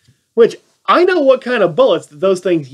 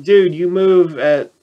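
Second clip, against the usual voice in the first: deadpan retort. Retold or imitated. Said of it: "I'm like".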